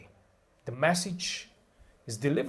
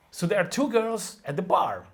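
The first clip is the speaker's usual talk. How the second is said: "two" punched higher and louder; stress on two; 5 semitones higher, 4 dB louder than usual. Shown as a demonstration. Teacher shows contrastive stress, not five girls. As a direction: hit the word "two". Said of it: "We can stress two".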